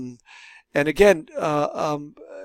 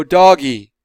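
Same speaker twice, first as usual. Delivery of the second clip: put-on child voice; 9 dB louder than usual. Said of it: "and they'll go".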